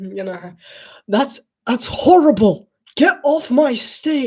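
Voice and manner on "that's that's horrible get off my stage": loud, high-pitched, dismissive put-down tone. Doing a talent show judge turning down an act: Simon Cowell voice. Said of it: "I just like doing his voice".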